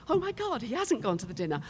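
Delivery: high, loud gasp of surprise; stunned inner cry; shocked. Retold or imitated. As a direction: suddenly realize he's there. Shocked inner thought on phone.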